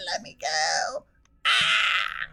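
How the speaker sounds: 1 whispered mock plea. Captured, pleading.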